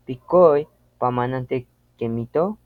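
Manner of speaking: "Pikoi pamanante kemito" as a question, voice pushed on the final O; question stress on O. Shown as a demonstration. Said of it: "una fuerza de voz en la O". (pregunta con fuerza de voz en la O de "kemito")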